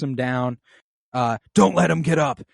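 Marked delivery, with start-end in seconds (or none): 1.5-2.4 shouted instruction. Retold or imitated. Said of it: "keeps shouting instructions".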